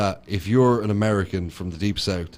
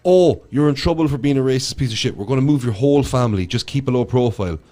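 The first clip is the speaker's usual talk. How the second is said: sarcastic, raised, mock-soothing official; 3 semitones higher than usual. Mocking the officials who move his family, sarcastic. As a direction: parody the officials coddling the lad. Mocking the authorities' soft treatment.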